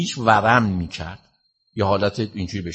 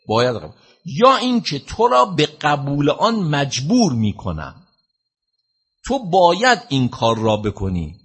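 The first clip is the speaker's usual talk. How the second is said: retold angry command; 4 semitones higher, 3 dB louder than usual. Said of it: "فریاد زد گفت".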